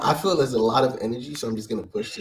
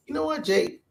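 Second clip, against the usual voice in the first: flustered burst; 4 dB quieter than usual. Real, not acted. Flustered denial among friends.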